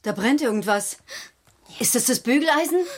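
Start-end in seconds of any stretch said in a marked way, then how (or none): 1.8-2.8 alarmed shout of the name; alarmed cry. Acted. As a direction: realise the iron is burning. Mother finds burning iron.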